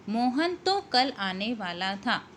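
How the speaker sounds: slow reading, तो leaned on; stress on तो. Shown as a demonstration. Teacher reading an example slowly to her students, stress on तो. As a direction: dwell on तो, slowly. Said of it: "तो शब्द पर अधिक जोर दिया".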